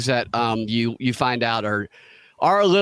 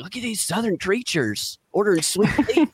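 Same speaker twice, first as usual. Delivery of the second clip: mock gawker, pitched up; high-pitched retold amazement at a novelty; gawking Chicago locals; 8 semitones higher than usual. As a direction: lightly imitate a marveling onlooker. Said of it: "People in Chicago are like".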